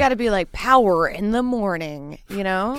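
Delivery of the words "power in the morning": morning radio voice. Retold or imitated. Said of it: "you tried to sound like a morning radio".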